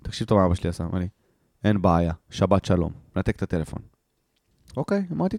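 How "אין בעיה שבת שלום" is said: low, matter-of-fact dad sign-off; curt imitated father. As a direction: close the call in a lower dad voice. Father's curt answer before hanging up.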